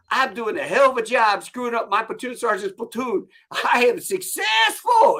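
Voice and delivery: high-pitched sarcastic drill instructor, swelling to a shout; mock sergeant rant. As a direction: goad the recruit, stretching the last words loudly. Acted sergeant rants, dictates mock letter.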